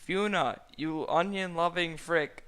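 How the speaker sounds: loud, high angry shout; hammed-up outrage; mock fury. A narrator's reading. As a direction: yell at the cheater. Shrek furious.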